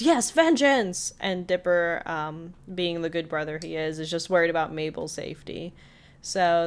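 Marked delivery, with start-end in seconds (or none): 0.0-1.1 high, slow triumphant cry; gleeful shout. Retold or imitated. Freed ghost crying out for vengeance, slow triumphant shout. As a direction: savor the vengeance, hammed up. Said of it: "And he shouts".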